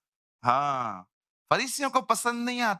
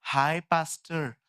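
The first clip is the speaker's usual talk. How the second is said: drawled casual hi; slower than usual. Retold or imitated. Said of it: "मैंने कहा, क्या?".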